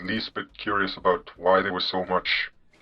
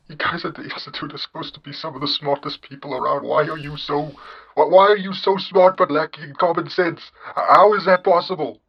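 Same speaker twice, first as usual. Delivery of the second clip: exasperated disbelief; 4 semitones higher than usual. Acted. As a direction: demand an explanation, more worked up as you go. Host baffled by their incompetence.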